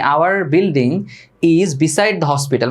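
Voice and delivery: slow dictation pace; slow model sentence. Shown as a demonstration. Teacher dictating an example sentence, slow and even. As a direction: spell it out word by word. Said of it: "তাহলে আমি বললাম".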